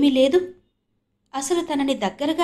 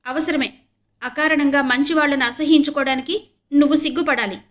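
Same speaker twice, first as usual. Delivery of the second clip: louder and higher, scolding his sister; indignant rebuke, raised voice; arguing back; 5 semitones higher, 6 dB louder than usual. A narrator's reading. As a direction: lecture her hotly. Siblings quarrelling.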